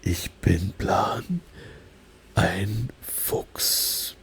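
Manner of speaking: slow, careful German self-introduction, whispered; German sentence. Shown as a demonstration. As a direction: introduce yourself slowly in German. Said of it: "in, like, really heavy German accent".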